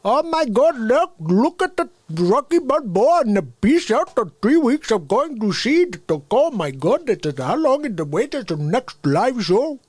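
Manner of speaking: high, slow, gushing put-on voice; rising gushing voice for the challenge script; excited script reading. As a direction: read the script in an overexcited falsetto. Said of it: "read some of the script here".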